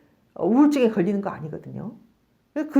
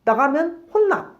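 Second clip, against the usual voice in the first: higher, louder and slow warning; parent warning; 7 semitones higher, 4 dB louder, slower than usual. Retold or imitated. Angry parent warning the child not to leave, slow raised voice. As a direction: threaten the child slowly. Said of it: "근데".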